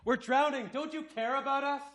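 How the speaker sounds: high, pleading cry for help; scared plea. Retold or imitated. Disciples in the sinking boat begging Jesus, high panicked plea. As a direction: beg him like you're sinking. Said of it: "That's basically what they were saying".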